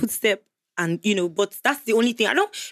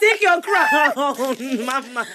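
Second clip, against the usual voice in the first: mock hailing; 4 semitones higher, 4 dB louder, slower than usual. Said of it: "Stop calling me mama".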